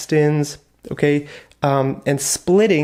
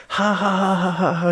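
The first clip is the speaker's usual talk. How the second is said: mock laughter; 4 semitones higher, faster than usual. Shown as a demonstration. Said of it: "Rolling on the floor laughing".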